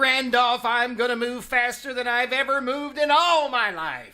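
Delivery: determined excitement. Acted. Mr Manchester vowing to Randolph to rush over, excited. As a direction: charge ahead with fierce resolve. Vows to rush and stop elopement.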